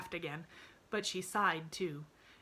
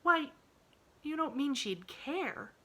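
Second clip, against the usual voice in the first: put-on worried, slower child's question; disturbed; 10 semitones higher, 4 dB louder, slower than usual. A narrator's reading. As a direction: ask in sudden worry. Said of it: "cried Pollyanna, plainly disturbed".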